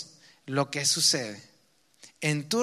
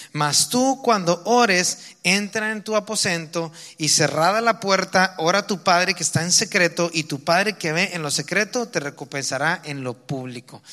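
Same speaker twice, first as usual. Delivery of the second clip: scripture reading; 3 dB louder than usual. Acted. Reading Matthew aloud.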